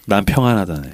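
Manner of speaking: low, understated reply with a hint of a smile; faint smile. Walt turns back to answer the priest, faintly smiling. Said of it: "아주 옅게 웃는데".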